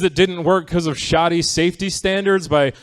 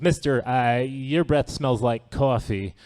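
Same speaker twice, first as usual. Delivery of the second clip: put-on kid voice; slower than usual. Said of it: "he goes".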